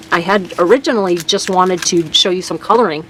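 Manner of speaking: whistling on the s sounds. Real, not acted. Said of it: "Oh, excuse my whistle".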